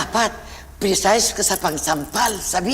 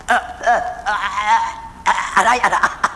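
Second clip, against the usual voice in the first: hammed-up groaning. Shown as a demonstration. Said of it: "Ganito, oh".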